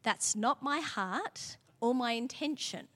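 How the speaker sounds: slow, soft and gentle suggestion; tender slow correction. Shown as a demonstration. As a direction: coach him kindly, slowly. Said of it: "I can say it like this".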